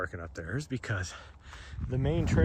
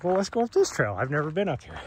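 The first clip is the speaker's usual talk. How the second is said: dog's voice; 4 semitones higher, 4 dB louder, faster than usual. Pretend. Voicing the dog's choice.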